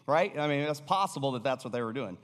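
ordinary delivery

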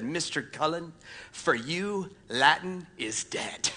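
slow, soft Southern drawl, gently final; deep Southern drawl. Retold or imitated. Teacher telling a student Latin is dead, soft slow Southern drawl. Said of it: "in her deepest Southern drawl".

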